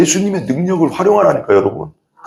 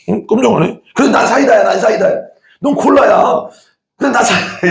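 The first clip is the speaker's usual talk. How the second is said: cola insisting, much higher; stubborn cola; 8 semitones higher than usual. Pretend. Cola insisting it's sprite.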